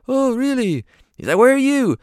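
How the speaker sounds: very high British voice; curious, way up high; impression of a singer. The singer asks a guitarist.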